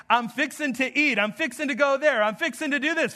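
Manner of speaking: Southern "fixin' to" said in quotation; Southern speech. Retold or imitated. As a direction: lightly imitate Southerners saying fixin'. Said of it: "things that are very Southern".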